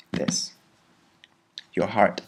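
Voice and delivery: whispered single word This. Shown as a demonstration. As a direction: breathe it out unvoiced. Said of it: "shows protecting heart".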